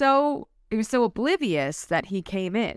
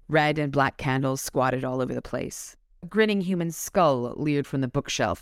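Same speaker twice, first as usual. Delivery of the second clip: measured, slightly lower narrator's read; story narration; 5 semitones lower than usual. A narrator's reading. Host reads the Gothic house description to listeners, measured narration. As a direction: read it out like an audiobook passage. Reads novel passage aloud.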